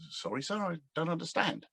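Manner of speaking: a hint of a London accent, muttered apologetically; a young actor apologizing to the producer, in a faint Michael Caine accent. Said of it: "Probably not in that accent".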